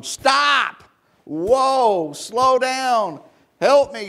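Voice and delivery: high panicked yells for the horse to stop; retold panicked screaming. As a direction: scream for help while clinging on. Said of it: "He started screaming".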